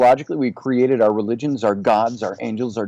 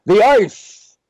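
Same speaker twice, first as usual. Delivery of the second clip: put-on high, loud New York Jewish accent; punched-up New York Jewish accent, pitched high; thick New York Jewish accent; 7 semitones higher, 7 dB louder than usual. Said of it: "in this thick, uh, New York, uh, you know, Jewish accent that he had".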